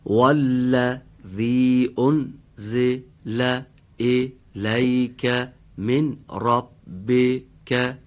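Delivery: slow, drawn-out recitation; slow Quran recitation. Shown as a demonstration. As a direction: recite each word slowly. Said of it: "آیه رو دقت بفرمید".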